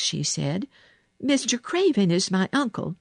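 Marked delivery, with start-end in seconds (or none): 1.2-3.0 put-on higher-pitched girl introducing herself; Mary. A narrator's reading. Girl answering the sick boy, high and composed. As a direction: announce it in a raised girl's voice.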